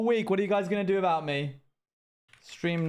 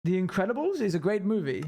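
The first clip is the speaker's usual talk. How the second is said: put-on, exaggerated English accent; overly British accent. Streamer keeping the accent going while chatting to viewers, overly British accent. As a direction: keep up the overdone British accent. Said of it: "Surprised the accent out of me".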